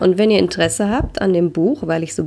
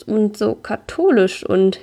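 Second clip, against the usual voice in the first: helpless explaining; 3 semitones higher, slower than usual. Acted. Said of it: "erkläre ich hilflos".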